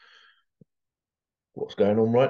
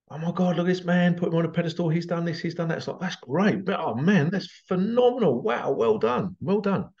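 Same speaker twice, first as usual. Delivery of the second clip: mock amazed praise; 4 semitones higher than usual. People praising the runner.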